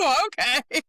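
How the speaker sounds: high, loud, impressed ooh. Retold or imitated. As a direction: sound taken aback but pleased. Her own reaction retold.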